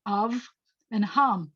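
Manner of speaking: "av" and "ham" each closed on its final consonant; closed syllables. Shown as a demonstration. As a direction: land on the v of "av", the m of "ham". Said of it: "I end in a consonant sound".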